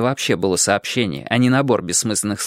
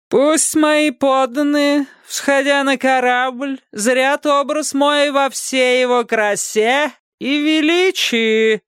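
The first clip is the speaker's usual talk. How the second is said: much higher, very slow pompous king; 13 semitones higher, slower than usual. A narrator's reading. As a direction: declaim it with vain grandeur. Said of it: "напыщенно провозгласил властитель".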